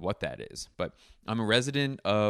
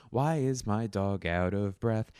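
news teaser voice. Pretend.

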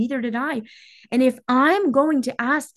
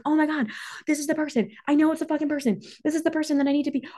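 excited inner knowing; 7 semitones higher, much faster than usual. Retold or imitated. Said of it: "your whole body is like".

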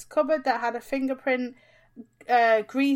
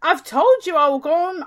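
loud, higher-pitched insistence; exasperated retort; 4 semitones higher, 8 dB louder than usual. Real, not acted. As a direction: insist loudly that you already said so. Fed-up reply in a squabble.

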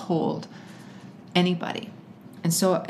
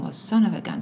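lightly mimicked catchphrase, leaning on SON; imitating dad's tone; 2 semitones higher, faster than usual. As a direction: quote dad's certain tone with falling end. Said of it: "it's in a certain tone".

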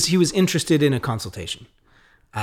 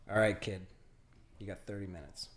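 grudging; 3 semitones lower, 11 dB quieter, faster than usual. Retold or imitated. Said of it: "he looks at me and he goes".

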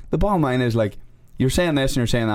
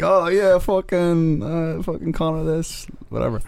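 high, drawn-out mock fan voice; lightly voiced gushing fan; mocking a fanboy; 7 semitones higher, slower than usual. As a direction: imitate a smug McGregor fan. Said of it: "So he's like".

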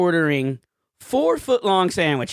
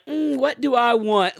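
higher, mock-pondering musing; dithering customer; 6 semitones higher than usual. Customer leaning on the counter over the menu, mock-pondering. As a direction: mimic someone idly making up their mind.

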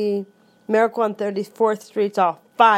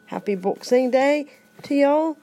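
a playful hint of a Southern accent; 5 semitones higher than usual. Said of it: "With a flair of the Southern".

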